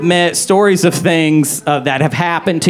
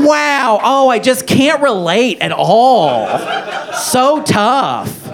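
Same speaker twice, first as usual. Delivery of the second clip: sarcastic pity; 5 semitones higher than usual. Acted. Sarcastic pity for targeted friend.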